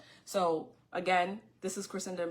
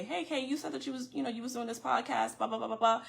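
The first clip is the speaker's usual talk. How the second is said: higher-pitched quote of eager askers; imitating followers; 4 semitones higher, faster than usual. Podcaster quoting followers who reached out to her, lightly imitated. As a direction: lightly voice the people nudging you.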